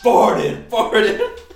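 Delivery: loud rapper shout-out, laughing; laughing mock hype; mock hype man.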